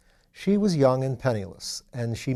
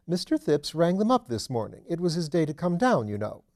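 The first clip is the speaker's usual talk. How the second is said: a lightly voiced chatty old duchess; mother gossiping on the phone, lightly voiced chatty duchess; 5 semitones higher, 3 dB louder than usual. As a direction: pass on the news like juicy gossip.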